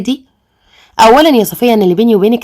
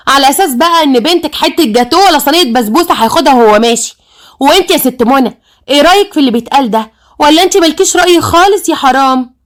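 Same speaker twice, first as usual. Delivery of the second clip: higher-pitched, mocking indignation; scornful jibe, pitched up; sarcastic; 4 semitones higher than usual. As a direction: needle them with acted sarcasm. Mocks father and sister over suitor.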